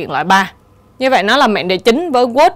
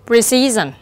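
"precision" stressed on CI, the second syllable; slower than usual. Shown as a demonstration. Teacher reading test words for students, stress on second syllable. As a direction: hit the middle syllable of "precision". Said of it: "nhấn ở âm thứ nhì".

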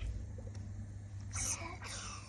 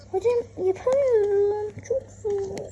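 whiny fake sob, slow; hammed-up teary whine; mock crying; 4 semitones higher, slower than usual. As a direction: pretend to cry over the hard level. Whining at hard game level.

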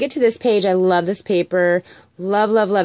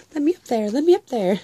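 kitten voice; 6 semitones higher than usual. Retold or imitated. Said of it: "he's down there going".

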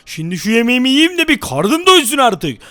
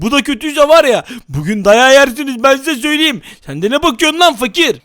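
mock angry threat. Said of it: "sinirli taklidine geçelim".

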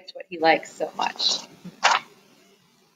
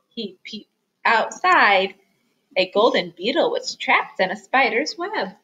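lively picture-book reading, stressing key words; story narration for children; 2 semitones higher than usual. A narrator's reading. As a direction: read it aloud to little listeners. Reads picture book aloud.

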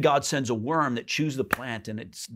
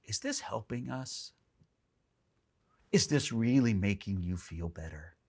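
put-on soft, gentle parent to an upset toddler; tender parent; 6 dB quieter than usual. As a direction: ask it tenderly, softly, without scolding. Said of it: "looks at them tenderly and goes".

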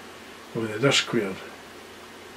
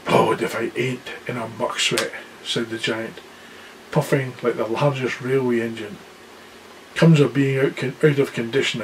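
giant's voice. Acted. Giant speaks after smashing gates.

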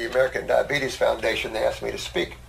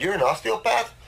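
laughing disbelief; 6 semitones higher than usual. Retold or imitated. Mocking the doctor, laughing.

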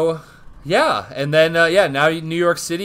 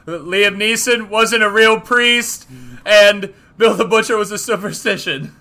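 mock rally call; 5 semitones higher than usual. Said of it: "scream it so the gang members in the back can hear".

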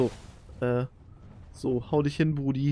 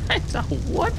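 stunned what; 4 dB louder than usual. Real, not acted. Surprised by rapid shooting.

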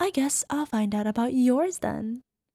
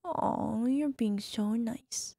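soft slow whisper; 5 dB quieter, much slower than usual. Acted. Mrs. Claus whispering fondly to her partner. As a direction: draw it out in a hush.

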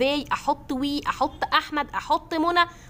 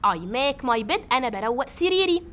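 normal talking voice

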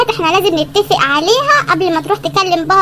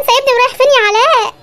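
calling after him, higher and pleading; 5 semitones higher than usual. Acted. Girlfriend left alone calling after Alaa, high pleading. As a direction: plead as he walks away.

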